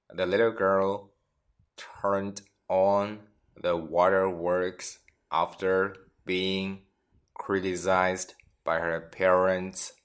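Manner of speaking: slow, phrase by phrase for learners; teacher reading slowly in chunks; slow teaching read. Shown as a demonstration. Teacher repeats example slowly for students. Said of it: "我们看看例子".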